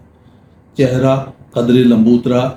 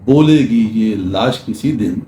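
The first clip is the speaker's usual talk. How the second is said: measured, lingering poetry reading; ghazal recital. Acted. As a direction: recite the ghazal line by line, letting each refrain fall. Ghazal line.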